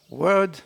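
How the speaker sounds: "word" with weight on its start; stress on first syllable. Shown as a demonstration. Teacher shows where the accent falls, stressed. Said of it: "I have the accent on the W in the beginning".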